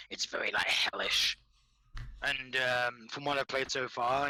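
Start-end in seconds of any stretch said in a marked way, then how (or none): 0.1-1.4 whispered hellish. Pretend. Describing the hellish setting.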